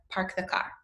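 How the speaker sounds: rhotic West Coast "Park the car", R sounded in "Park" and "car"; West Coast accent. Shown as a demonstration. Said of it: "we'd probably say something like".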